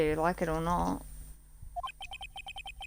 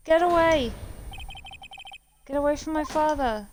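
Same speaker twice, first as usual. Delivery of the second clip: desperate shout; 8 semitones higher than usual. Acted. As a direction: scream at the attacker to get away. Child threatens attacker with pistol.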